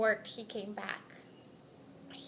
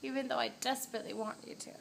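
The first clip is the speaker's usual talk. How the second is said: dramatic movie; 4 dB louder than usual. Acted. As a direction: overact like a movie star refusing a kiss. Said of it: "like a dramatic movie".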